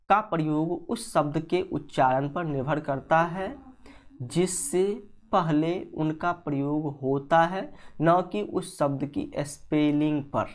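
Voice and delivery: slow, measured read-out of a definition; reading a rule aloud. Shown as a demonstration. Teacher reading the definition to students, slow dictation-like delivery. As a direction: read it out slowly, phrase by phrase.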